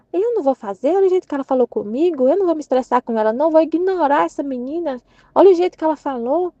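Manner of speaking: lightly acted huffy indignation; mock huff, brushing someone off; offended refusal. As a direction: play at being offended, pitch lifting at the edges. Acting out an offended, dismissive reaction.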